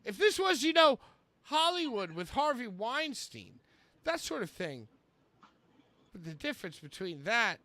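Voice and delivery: theatrical quote reading with sudden punches; Chris Jericho. Acted. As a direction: swell on key words, then drop away. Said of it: "This is Chris Jericho".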